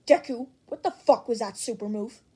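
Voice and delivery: loud, rough shouted demand; angry yell. Acted. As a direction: bark it at Deku like a rival. Dynamite yells in chat.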